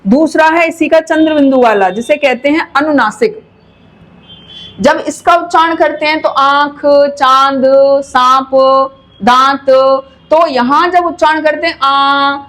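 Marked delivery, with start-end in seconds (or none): 4.8-9.7 आंख, चांद said with vowels through mouth and nose; nasalized vowels. Shown as a demonstration. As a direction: let the vowel of सांप ring in the nose. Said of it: "मुंह और नाक दोनों का उच्चारण होता है".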